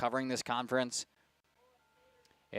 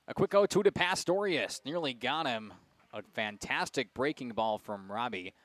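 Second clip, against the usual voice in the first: play-by-play. Acted. Announcer calls a pitch to the listeners, play-by-play. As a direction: call the pitch, easing down as it ends.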